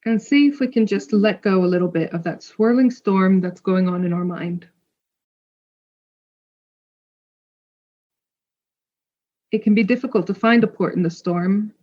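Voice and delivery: calm meditation guide, long pauses between phrases; guided meditation. Real, not acted. Podcast host guides listeners into a full moon meditation, calm and spacious. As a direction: lead them gently inward, leaving space to breathe.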